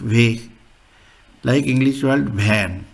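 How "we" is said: "Weg" said as "veh"; German letter name. Shown as a demonstration. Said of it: "W is pronounced as".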